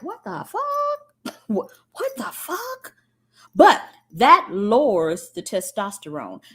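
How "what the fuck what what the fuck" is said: high, slow, squealing disbelief; shocked bull. Retold or imitated. Bull just castrated, shrieking in high slow disbelief. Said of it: "The bull is like".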